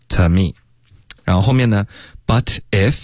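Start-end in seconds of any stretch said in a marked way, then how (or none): 0.1-0.5 "To me" with unrounded, reduced "To"; weak to. Shown as a demonstration. Teacher repeating the weak form for learners, tuh-me. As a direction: say "To me" as tuh-me, lips relaxed. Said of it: "就T就行".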